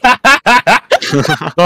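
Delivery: talking through peanut butter; words round a sticky mouthful; mouth full of peanut butter. Real, not acted. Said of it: "I just got paint butter in my mouth".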